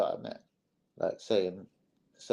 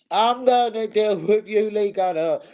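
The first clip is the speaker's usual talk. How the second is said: high, slow menacing promise; mock threat; 7 semitones higher, 4 dB louder, slower than usual. Warning Lee Gunner on stream, high slow mock threat. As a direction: lean into the threat.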